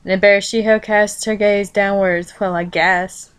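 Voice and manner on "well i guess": plain reading voice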